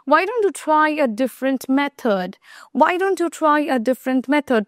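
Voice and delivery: very slow, deliberate question; slow example. Shown as a demonstration. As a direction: model it word by word for students. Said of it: "example repeated slowly". (ধীরে ধীরে প্রশ্ন)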